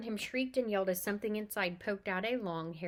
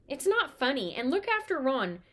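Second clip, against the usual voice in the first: stern; 5 semitones higher, 7 dB louder than usual. A narrator's reading. Mother scolding.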